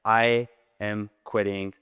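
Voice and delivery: slow, deliberate demonstration of firmness; definitive statement. Retold or imitated. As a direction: state it slowly, leaving no opening. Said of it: "It needs to be a definitive statement".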